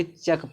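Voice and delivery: चक closing on a k sound; shown reading चक. Shown as a demonstration. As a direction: end चक simply on k. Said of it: "इसको क्या पढ़ेंगे". (चक, अंत में 'क' की ध्वनि)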